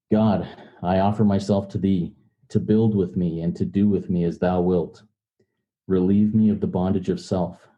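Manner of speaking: leading a prayer; group prayer recital. Real, not acted. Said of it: "join me in the step three prayer".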